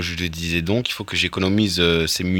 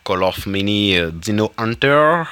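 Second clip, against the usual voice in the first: bad English accent; slower than usual. Shown as a demonstration. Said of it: "accent anglais, nul".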